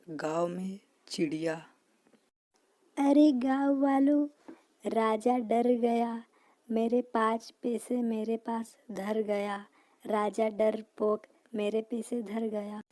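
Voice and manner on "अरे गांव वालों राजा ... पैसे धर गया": high, loud jeering bird; high loud triumphant bird taunt; gloating bird. Acted. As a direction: crow over the scared king.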